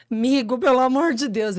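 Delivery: súplica alta e aguda; pedido desesperado. Retold or imitated. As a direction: implorar ao amigo, em pânico. (súplica desesperada ao telefone)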